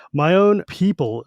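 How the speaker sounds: "My own people," slow, then a heavy pause. Retold or imitated. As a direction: draw out "My own people" before pausing. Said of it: "with a heavy pause in between".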